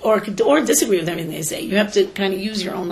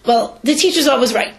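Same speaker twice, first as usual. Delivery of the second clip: dismissive parent; 4 semitones higher, 4 dB louder than usual. Retold or imitated. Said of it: "you're not gonna just say".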